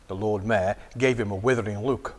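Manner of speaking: plain reading voice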